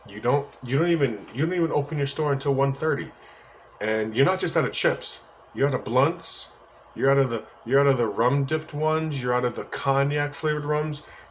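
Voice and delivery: mild, exasperated retold scolding; retold telling-off. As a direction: lay out the complaints point by point, mildly cross. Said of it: "And I told his ass off".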